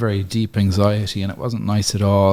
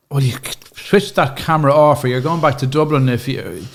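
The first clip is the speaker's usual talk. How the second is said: scolding Irish mammy; 4 semitones higher, 3 dB louder than usual. Retold or imitated. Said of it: "She's a typical mammy".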